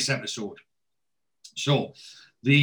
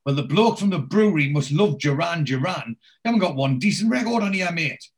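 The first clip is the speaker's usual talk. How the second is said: imitating Oz; 5 semitones higher, 3 dB louder than usual. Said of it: "He got his voice off perfect".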